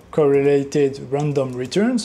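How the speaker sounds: slow, English-accented tech terms. Shown as a demonstration. Showing the viewer his English accent on code terms. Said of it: "avec mon accent anglais".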